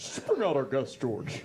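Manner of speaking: dropped a full octave, deep delivery. Repeating the line after being asked for it lower: lower octave. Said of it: "Lower octave, and I'll do it".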